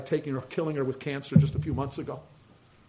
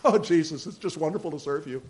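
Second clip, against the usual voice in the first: joyful laugh. Retold or imitated. Paul voiced joyful.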